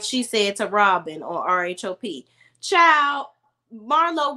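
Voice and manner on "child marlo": exasperated. Real, not acted. Exclaims in disbelief.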